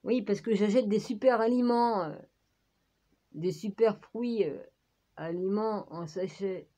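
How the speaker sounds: talking through hiccups; hiccuping while eating. Real, not acted. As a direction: speak between little hiccups. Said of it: "j'ai le hoquet".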